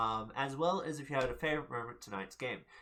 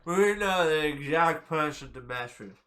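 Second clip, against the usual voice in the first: reptilian voice; 6 dB louder than usual. Retold or imitated. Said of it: "like, a really, a really reptilian voice".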